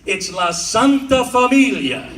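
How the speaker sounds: La Santa Familia with rolled Italian flair, stress on Santa; Italian accent. Shown as a demonstration. Comic showing how the school name sounds, Italian style. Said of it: "If you say it like that".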